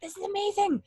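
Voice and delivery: imitated excited student. Teacher quoting her student's delight, high and excited. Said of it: "Nobel freaked out".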